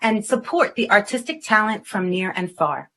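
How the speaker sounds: measured presenter read, phrases dropping at the ends; scripted guest introduction. Acted. Host introducing a cafe owner to viewers, polished presenter read. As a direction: read it out neatly, item by item.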